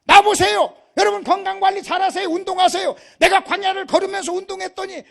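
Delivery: high, loud exhorting shout; booming boastful testimony, preached; Moses. Acted. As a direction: proclaim it to the crowd at full force. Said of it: "모세가 이렇게 얘기해야 돼요".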